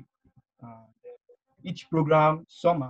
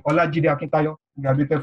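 clearly projected, louder name; louder retake; 3 semitones higher, 6 dB louder than usual. Real, not acted. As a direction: speak up for the mic. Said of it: "I'll take that again".

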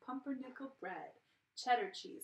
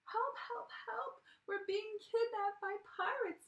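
yelling for help; 10 semitones higher than usual. Acted. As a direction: scream it out, they're being kidnapped. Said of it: "yelled Grandma and Oliver".

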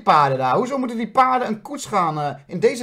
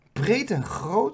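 slow mocking drawl; much slower than usual. Real, not acted.

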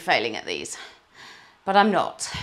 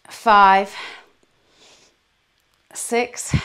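kettlebell reps; 2 semitones higher, 8 dB louder, much slower than usual. Real, not acted. Counting reps during kettlebell workout.

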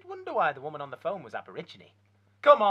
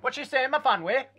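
mock Welsh accent; 6 semitones higher, 7 dB louder than usual. Welsh cook Owen interrupts.

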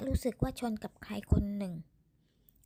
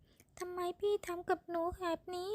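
high, slow, tearful plea; woman pleading through tears; sobbing woman; 8 semitones higher, slower than usual. A narrator's reading. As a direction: beg him through sobs. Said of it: "เสียงผู้หญิงพูดปนเสียงสะอื้น".

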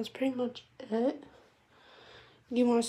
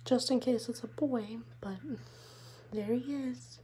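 whispered aside; 7 dB quieter than usual. Real, not acted. Confiding aside to viewers.

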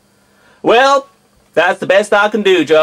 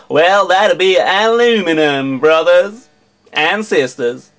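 American accent. Shown as a demonstration. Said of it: "an entire video in an American accent".

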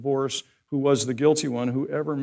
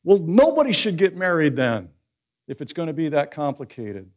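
louder, higher, sputtering exasperation; exasperated; 5 semitones higher, 7 dB louder than usual. Acted. Disciples throwing up their hands at Jesus' teaching, exasperated. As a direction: sputter in disbelief, then blurt out the verdict. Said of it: "see them in their exasperation going".

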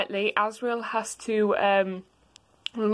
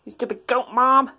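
louder bratty retort; bratty insult; 2 semitones higher, 6 dB louder than usual. Acted. Azzy insulting his mother, bratty and louder. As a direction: snap it at mom like a brat.

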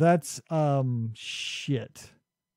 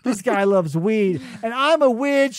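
mocked movie characters; 3 semitones higher, 3 dB louder than usual. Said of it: "all of his characters are like".

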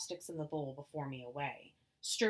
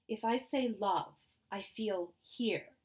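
put-on Chinese accent; 5 semitones higher, 4 dB louder, slower than usual. Mother explains, slow, earnest.

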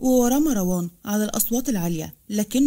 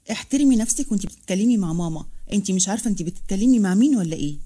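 scolding. Acted. Hala rebukes Farah for her mother, scolding. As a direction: tell her off, lightly. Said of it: "اتدخلت حلا وقالت بتوبيخ".

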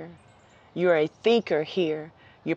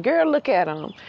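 gossiping hen; 3 semitones higher than usual. Pretend. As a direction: nudge your girlfriend and point him out. She's sitting around here telling.

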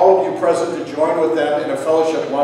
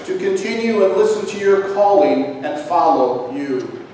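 prayer. Acted. Leads funeral prayer.

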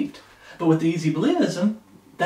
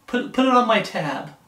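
a hint of careless mockery, pitched higher; lightly voiced flippant churchgoer mocked; mocking easy believer; 5 semitones higher than usual. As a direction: toss it off like a mocking shrug. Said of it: "This easy believism".

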